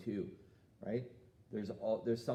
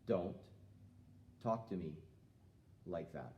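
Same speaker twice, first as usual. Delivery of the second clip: steady, calm, falling off to a low finish; calm and firm; 4 semitones lower, 6 dB quieter than usual. Shown as a demonstration. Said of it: "We say it one more time".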